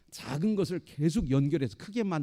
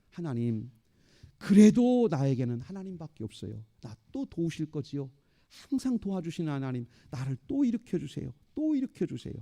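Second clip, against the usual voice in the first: pleading. Acted. David appealing to God to raise him up, pleading. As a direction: plead for help, lifting at the end. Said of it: "다윗이 그때 하나님 앞에 호소한 거예요".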